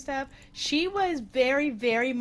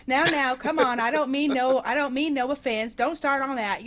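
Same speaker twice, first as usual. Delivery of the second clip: lightly imitated Boston waitress accent; 2 semitones higher, 5 dB louder than usual. Waitress hushing giggling customers, mock Boston accent. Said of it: "in her heavy Boston accent".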